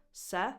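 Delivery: "se" said alone as the stressed syllable; stressed first syllable. Shown as a demonstration. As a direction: give "se" a full, clear vowel. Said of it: "The stress is on the first syllable".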